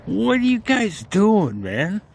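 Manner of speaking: high, incredulous mock complaint; teasing exasperation, high-pitched; mock scolding. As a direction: playfully take them to task, voice shooting up. Mock scolding of fellow CW operators.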